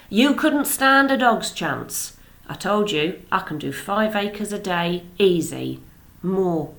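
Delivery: a hint of a swaggering tractor owner; boastful farmer. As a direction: brag it like a cocky neighbour, lightly voiced. Harry Medlicote boasts of tractor.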